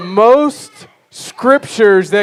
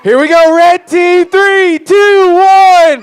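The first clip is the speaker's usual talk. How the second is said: high voice; 8 semitones higher, 5 dB louder, much slower than usual. Shown as a demonstration. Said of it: "the really, really high voices".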